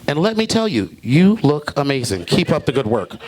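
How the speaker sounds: slow, earnest encouraging voice; lightly voiced supportive gym buddy; friendly white guy. White friend at the gym praising him, slow and earnest. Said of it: "He's like".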